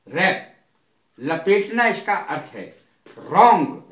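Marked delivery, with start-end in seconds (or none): 0.1-0.5 रैप starting on the R sound; silent W. Shown as a demonstration. Teacher repeating wrap for students, रैप with silent W. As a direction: leave the W out of रैप. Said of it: "रैप में डब्ल्यू silent है".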